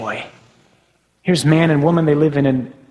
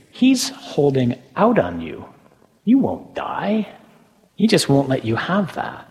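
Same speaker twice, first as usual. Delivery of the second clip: lightly voiced tempter, pitch leaping up on key phrases; doubt-planting serpent; 3 semitones higher than usual. Serpent planting doubt in Eve's mind, lightly insinuating. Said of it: "he plants this seed of doubt in her mind".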